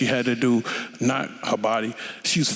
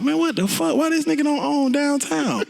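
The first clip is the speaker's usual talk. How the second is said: mock outrage; 12 semitones higher than usual. Retold outraged reaction.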